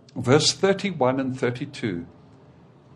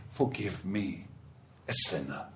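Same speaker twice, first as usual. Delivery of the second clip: humble plea; 7 semitones lower, 8 dB quieter than usual. Acted. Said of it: "would not even look up to heaven".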